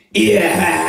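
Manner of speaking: loud rasping shriek; black metal voice. Shown as a demonstration. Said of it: "The black metal voice".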